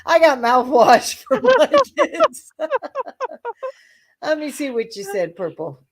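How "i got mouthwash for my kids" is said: mock Savannah. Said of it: "Savannah's like".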